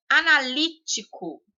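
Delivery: Analítico high, with LÍ standing out; stress on third syllable. Shown as a demonstration. Teacher giving a proparoxytone example, stress on LÍ in Analítico. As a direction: lean on the -lí- of Analítico. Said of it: "li aí fez o som mais forte".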